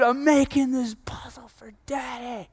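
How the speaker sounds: put-on proud little boy. Child voiced proudly in story.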